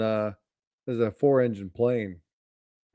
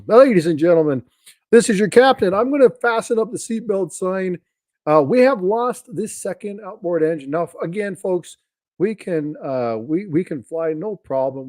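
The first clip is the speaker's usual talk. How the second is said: higher and louder captain on the intercom; a lightly hammed-up captain calming passengers; pilot announcement; 7 semitones higher, 4 dB louder than usual. Teller voicing the captain announcing engine trouble, higher and louder. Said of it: "and the captain goes".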